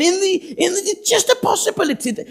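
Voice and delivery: hammed-up nervous Moses; stammering Moses. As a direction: fumble and hedge like a reluctant man. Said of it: "Moses is saying".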